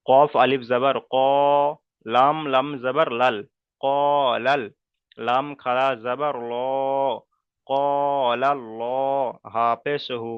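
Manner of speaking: Arabic spelling drill building ক, লাল, ল, হু; letter-by-letter spelling. Shown as a demonstration. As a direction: spell out ক লাল ল হু in separate held syllables. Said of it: "অর্থাৎ ল উচ্চারণ হবে".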